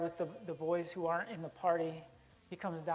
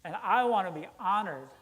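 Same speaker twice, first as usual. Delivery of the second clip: louder, self-righteous insistence; resentful demand; 7 dB louder than usual. Acted. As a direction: demand the honor you think is owed. Older brother demands honor.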